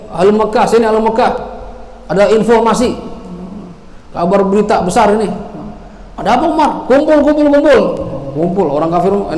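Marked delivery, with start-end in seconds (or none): 0.1-5.3 calling out. Retold or imitated. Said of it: "dia teriak". 6.2-7.8 calling crowd together. Acted. Crowd calls, Umar gathers.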